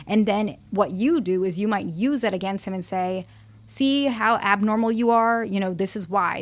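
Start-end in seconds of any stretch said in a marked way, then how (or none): 3.7-6.4 slower, pointed accusation thrown at a partner; mildly mock the partner as abnormal; accusing jab. Partner's condition used against them, mild accusing tone. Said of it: "you throw that in their face".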